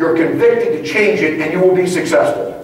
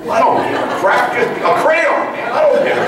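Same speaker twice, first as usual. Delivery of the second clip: higher, laughing impression of an eager trainee; mock eager recruit; 5 semitones higher than usual. Laughing at recruits, he mimics an eager trainee. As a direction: play the giddy recruit who'll write with anything.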